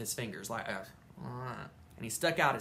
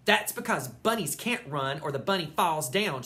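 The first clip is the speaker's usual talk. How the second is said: calling out; 3 semitones higher, 5 dB louder than usual. Acted. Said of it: "she called out".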